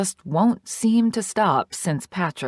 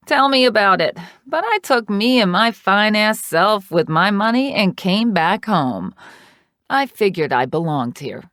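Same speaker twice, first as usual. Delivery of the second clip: dish the tea like a sassy aunt; a loud, sassy older woman telling her drama; sassy Trixie; 4 dB louder than usual. Acted. Trixie's dialogue voiced.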